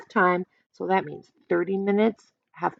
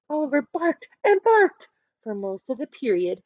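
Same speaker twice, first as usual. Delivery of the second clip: ordinary delivery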